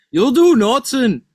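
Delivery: high, loud ringside cheer. Pretend. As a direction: shout it like a fan. Mock cheer for fighter.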